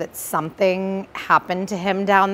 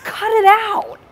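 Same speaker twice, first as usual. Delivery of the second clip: crying plea; 13 semitones higher, 4 dB louder, slower than usual. Real, not acted. Scolding dad, cry heard.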